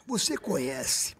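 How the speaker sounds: very slow, grave, drawn-out; solemn slow question. Retold or imitated. Serginho confronting tearful Xuxa, very slow and grave. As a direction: lay it on like a serious confession.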